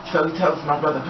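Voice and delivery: ordinary delivery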